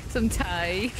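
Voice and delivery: teasing copy of a bad British accent; mock British "Thai"; mimicked British accent. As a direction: echo the botched British vowel. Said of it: "It sounded like you said Thai".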